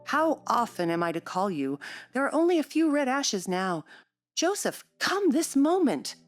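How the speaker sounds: petulant complaint climbing to a high, insistent call; peevish. A narrator's reading. Invalid boy summoning his negligent servant, peevish. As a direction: scold the servant, rising to an impatient demand. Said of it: "cried a peevish voice".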